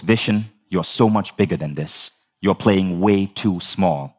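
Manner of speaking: imitated mentor, slowing to make the point; lightly voiced grave advice, measured and deliberate; deep pronouncement. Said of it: "something deep is coming".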